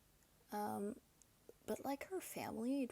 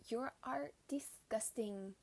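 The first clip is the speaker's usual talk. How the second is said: slow, restrained mock disgust; measured, understated imitation of disgust; retold disgust; 4 dB quieter than usual. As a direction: repeat the insult slowly, word by word. Same insult repeated, toned down.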